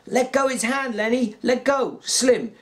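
high urgent shout. A narrator's reading. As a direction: shout it over and over. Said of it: "George shouted over and over".

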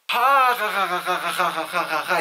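imitated laugh, bursting high and loud then rattling on; mock group laughter. Company laughs at a joke you missed, mock group laughter. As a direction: fake a long hearty cackle of the whole company. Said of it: "γελάνε όλοι".

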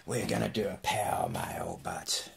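hushed conspiratorial whisper; breathy mock-secret whisper to viewers. Secretive aside before opening.

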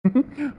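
high, short chuckle; amused husband's high chuckle; teasing laugh. Acted. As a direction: laugh at the wife's pique. Husband teases his wife.

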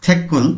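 থেকুল with the middle consonant said as a tense "kk"; ক-এর মতো উচ্চারণ. Shown as a demonstration. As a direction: say থেকুল as "thek-kul". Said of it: "কয়ের মতো উচ্চারণ করছি আমরা". (থেকুল-এর মাঝে জোর দিয়ে "ক্ক" উচ্চারণ)

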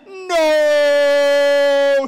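high, loud desperate no; cry. Acted. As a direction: throw yourself into it. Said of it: "he cried".

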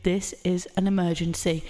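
like a station PA ordering people out; tannoy announcement. Retold or imitated. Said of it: "heard go over the tannoys was".

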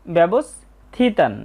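ব্যবস্থিতান drawn out syllable by syllable; slow recitation. Shown as a demonstration. Teacher reads out the verse word slowly. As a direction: read ব্যবস্থিতান slowly, each syllable separate. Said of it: "তাই এর শুদ্ধ উচ্চারণ হবে".

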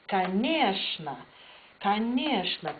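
"конечно" with the stress on the middle e. Shown as a demonstration. Teacher models the Russian reply "конечно" with stress on e. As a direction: lean on the e of "конечно". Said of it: "paino e".

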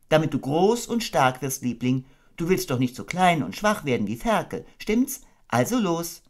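high, gentle mother kangaroo voice; motherly Kanga. Acted. Kanga tucking her baby into bed, motherly. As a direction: coo it like a doting mother.

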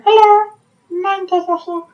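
mine turtle voice. Shown as a demonstration. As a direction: squeak the greeting, stretch the name. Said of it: "It's kinda fun to do".

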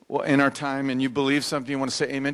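ordinary delivery

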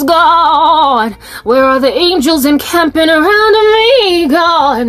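mock lament to God. Griping to God about the roaches, half sung. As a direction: whine up at God, half singing. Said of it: "I was like".

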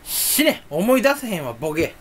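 mock Kansai-dialect outburst; fake Kansai dialect. Cursing himself for forgetting, in fake Kansai dialect. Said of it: "エセ関西弁最高".

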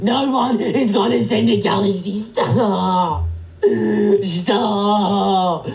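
slow, dragged-out protest; drawn-out pleading. Real, not acted. Streamer begging viewers not to send galaxies, drawn-out pleading. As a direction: stretch each plea into a long whine.

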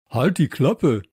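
loud, punchy telling-off; shouted order. Acted. Josef silencing his rude parrot, loud shout. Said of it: "rief Josef".

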